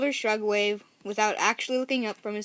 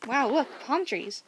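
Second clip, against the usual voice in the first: excited cry; 3 semitones higher than usual. A narrator's reading. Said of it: "I cry".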